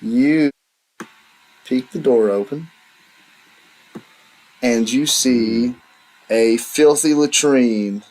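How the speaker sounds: measured scene-setting with long pauses; deliberate tabletop storytelling; game master's narration. A narrator's reading. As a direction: unveil the room slowly, phrase by phrase.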